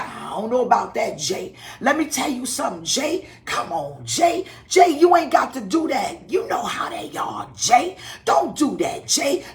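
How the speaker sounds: a hint of the bishop talking her down; Bishop Page voice. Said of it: "if you ever heard Bishop Page talk".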